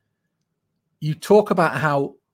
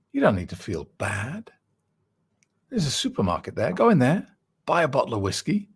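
evil clown's voice. Retold or imitated. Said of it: "And it was the evil clown".

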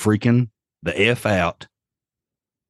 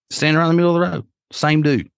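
excited emphasis; 8 semitones higher, much faster than usual. Real, not acted. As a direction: stress it like you can't believe it. Peak of scary story.

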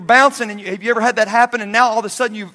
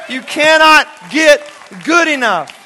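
loud preaching; 5 semitones higher, 7 dB louder, slower than usual. Shown as a demonstration. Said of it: "Wish I had time to preach that".

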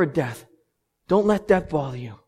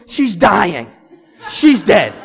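mock panic; 3 semitones higher, 8 dB louder, much slower than usual. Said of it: "lie on the kitchen floor and scream".

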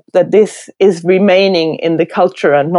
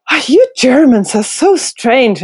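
higher, mock-puzzled voice of a British local; bemused Brit; 6 semitones higher than usual. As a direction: imitate a baffled English onlooker. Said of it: "they're like".

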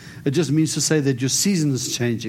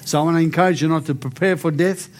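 healing declaration. Acted. Prays healing over the lady.

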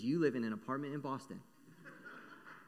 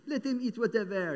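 haughty Marie Antoinette; 6 semitones higher, 9 dB louder than usual. Retold or imitated. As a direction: sneer at the poor from above. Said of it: "She's like".

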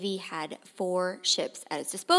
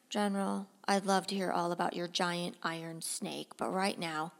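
softer, restrained president's voice; lightly voiced leader humoring an excitable general; Lincoln; 2 semitones lower, 6 dB quieter than usual. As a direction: gently try to steer him back. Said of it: "you're going to hear Lincoln".

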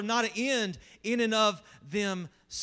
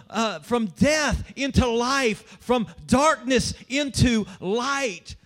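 raised, emphatic sermon delivery building louder to a peak; impassioned preaching; 3 semitones higher, 3 dB louder than usual. Real, not acted. Preacher proclaiming good news to the congregation, impassioned and building. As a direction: preach it hard, punching the key phrases.

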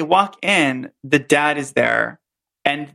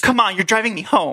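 Brenda reenactment; 3 semitones higher than usual. Acted. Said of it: "me and Robert are gonna reenact it".

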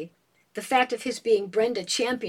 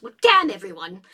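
laughing defiance; 6 dB louder than usual. A narrator's reading. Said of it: "And Julia says".

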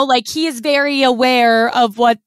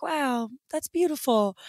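hushed awe; 8 dB quieter than usual. Retold or imitated. Retelling her awe at fireworks.

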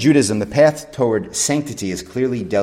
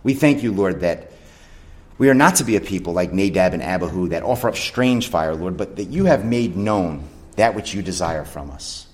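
closing prayer. Acted. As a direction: pray it aloud over the congregation. Pastor leads closing prayer.

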